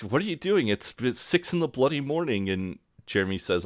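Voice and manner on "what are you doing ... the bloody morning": high, incredulous what-are-you-doing; mock outrage at a drunk flatmate; exasperated. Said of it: "or Mark's like".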